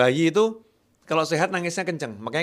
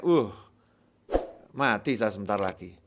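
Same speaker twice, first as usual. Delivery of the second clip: despairing groan; 5 semitones lower than usual. Retold or imitated. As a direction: sink into hopeless resignation. Man fearing death after covid test.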